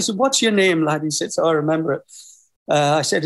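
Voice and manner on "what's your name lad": lightly voiced Middlesbrough accent; a hint of a Middlesbrough cabbie. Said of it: "Forgive my Middlesbrough accent".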